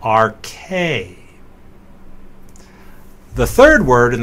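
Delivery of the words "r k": "R K" with the stress on "K"; "R K" said slowly as ar-KAY; stress on final syllable. Shown as a demonstration. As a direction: lean on the long "K" ending of "R K". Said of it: "accent is on the improper diphthong".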